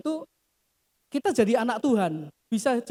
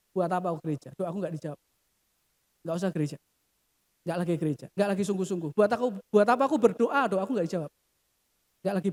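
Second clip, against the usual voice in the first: sulky believer; 4 semitones lower, faster than usual. Acted. Sermon voicing a disappointed believer.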